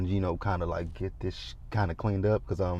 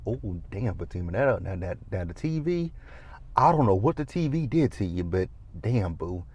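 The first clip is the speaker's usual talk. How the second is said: softer, lower, hushed disbelief; soft stunned mutter to a friend; hushed awe; 3 semitones lower, 7 dB quieter than usual. Retold or imitated. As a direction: murmur it, stunned. Awed, hushed reaction to smashing.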